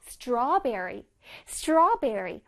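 strawberry with long straw and clear r; joined-up word. Shown as a demonstration. Teacher putting the two parts together, long straw in strawberry. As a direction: join straw and berry into strawberry. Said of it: "합쳐서 시작".

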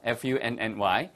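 slow, deliberate letter-by-letter spelling. Shown as a demonstration. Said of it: "spelling out".

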